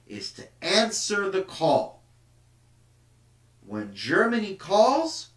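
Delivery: rising, rousing calls on "When Germany", a hint of a propagandist; lightly voiced patriotic orator stirring the crowd; mock nationalist rally. History teacher voicing a German nationalist, mildly rousing.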